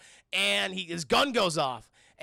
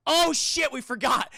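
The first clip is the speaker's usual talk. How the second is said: mock sheepish aliens; 6 semitones higher, 6 dB louder than usual. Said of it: "the Fleshlings are like".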